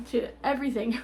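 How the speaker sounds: half laugh, half sob, breaking; laughing through tears. Real, not acted. Crying over her late mother.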